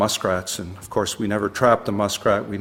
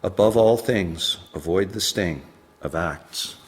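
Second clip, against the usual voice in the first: measured poetry reading, pausing between phrases; poem recitation. Acted. Poet reading advice to his ten-year-old self, poem recitation. Reads own poem aloud.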